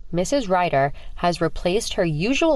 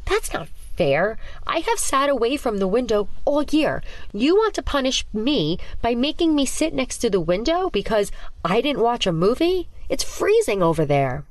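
moaning complaint; 6 semitones higher than usual. Acted. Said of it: "moaning at the teacher's words".

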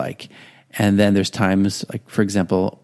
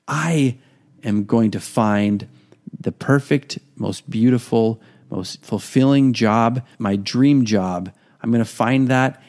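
confident affirmation. Pretend. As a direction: state your dream like you truly believe it. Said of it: "You're not putting out there".

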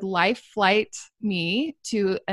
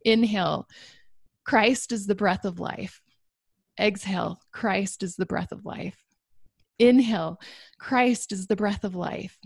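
breath prayer. Shown as a demonstration. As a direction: pray it with each breath. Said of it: "repeat this over and over with every gasping breath".

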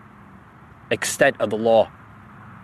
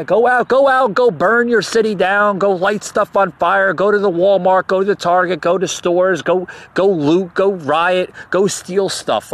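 sarcastic mock encouragement; 5 semitones higher than usual. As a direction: egg them on with heavy mock cheer.

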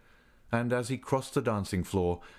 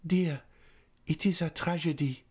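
mildly sad; 8 semitones higher than usual. A narrator's reading. Christine answering sadly.

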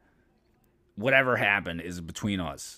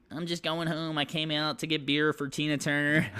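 very high, hammed-up buddy voice; mock greeting of a rapper; 8 semitones higher than usual. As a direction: squeak it out like a goofy passerby.

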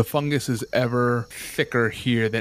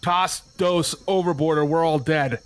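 higher, insistent mock yell; acted yell; 4 semitones higher than usual. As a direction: press the order as a desperate crewman. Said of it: "he yells to you".

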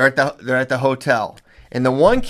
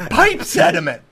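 much higher, laughing disbelief at pipe sediment; incredulous laugh; 6 semitones higher than usual. Real, not acted. Coach retells kid's excuse, laughing in disbelief.

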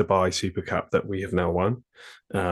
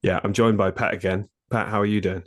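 nasal voice. Real, not acted. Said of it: "forgive my nasal sounding voice".

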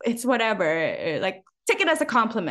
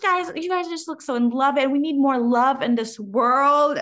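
gushing stranger; 4 semitones higher, 3 dB louder than usual. Retold or imitated. Voicing gushing lady in story.

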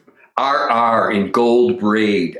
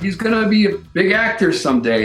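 hammed-up celebrity; 7 semitones higher, faster than usual. Robert Reed quoted to fans.

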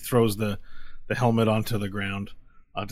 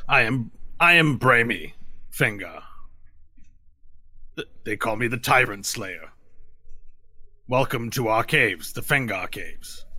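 lightly voiced lizard-folk warrior, formal; measured, ceremonious self-introduction in character; Brahmi. Lizard warrior welcomes visitors to the Fengar caves, lightly in character, formal. Game master plays lizard chief.

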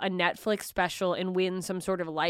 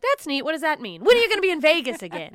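higher, fast clueless relative; mock family reaction; 7 semitones higher, 4 dB louder, faster than usual. Comic imitating family unimpressed by the Comedy Store, high. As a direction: rattle it off like an unimpressed aunt.

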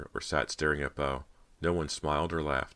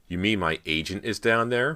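higher, louder mock question; joking question; 5 semitones higher, 5 dB louder than usual. A narrator's reading. Persia quips about the rats downstairs, joking. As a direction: toss it out as a joke to the room. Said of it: "Persia joked".

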